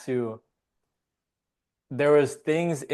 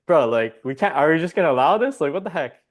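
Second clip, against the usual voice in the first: outraged monk; 4 semitones higher, 5 dB louder than usual. Retold or imitated. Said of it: "the dude's like".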